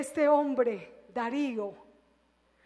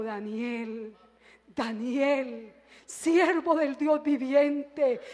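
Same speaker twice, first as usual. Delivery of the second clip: sad call; 2 semitones lower, slower than usual. Retold or imitated. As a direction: call down into the pit in grief. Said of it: "con voz muy triste". (llamado triste y suave)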